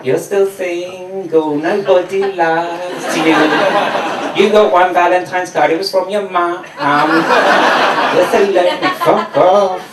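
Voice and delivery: slow, mocking taunt; slow sing-song jeer; taunting couples. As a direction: sneer it out slowly like a bully. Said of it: "it was almost taunting me saying".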